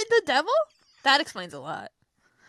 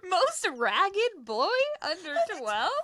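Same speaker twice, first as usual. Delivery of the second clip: incredulous; 6 semitones higher, slower than usual. Real, not acted. Incredulous repeat of prize.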